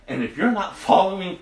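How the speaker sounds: preacher pleading with the congregation; urgent plea. Real, not acted. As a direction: press it on them.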